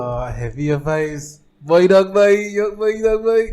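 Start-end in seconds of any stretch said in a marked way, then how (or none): 1.6-3.5 high, loud mock Trini voice; bad mocking impression. Host mimicking his Trini guest's talk, high mocking impression. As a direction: mimic him badly, pitched up and loud. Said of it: "that was not a good impression".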